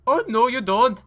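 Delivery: high, loud mock British shout; defiant shout. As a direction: cut him off with a shouted challenge. Cutting off rival in race.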